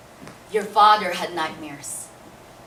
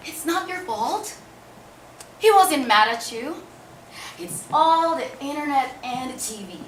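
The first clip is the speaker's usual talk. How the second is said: lightly voiced father, higher, with a smile; smiling father; 4 semitones higher, 4 dB louder than usual. Father excusing child after praying over them, smiling reassurance. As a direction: reassure through a smile, pitched up a little. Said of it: "Smiling, he would say".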